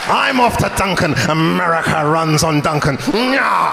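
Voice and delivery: sulky exit with a taunt; George Washington. Retold or imitated. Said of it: "my George Washington impression".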